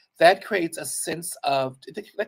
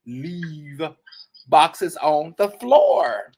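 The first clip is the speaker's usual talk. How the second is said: put-on slow spelling lesson for a child; mock spelling lesson; slower than usual. Teaching the boss to read the sign, mocking and slow. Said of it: "spelling the sign out slowly".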